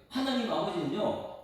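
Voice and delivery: ordinary talk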